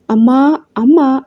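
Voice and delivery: a mild, lightly acted call for mother; calling out loudly. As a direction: call out to mom without real volume. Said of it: "అని గట్టిగా అరుస్తున్న కూతురి కేకలు". (తల్లిని పిలుస్తూ తేలికగా అరుపు)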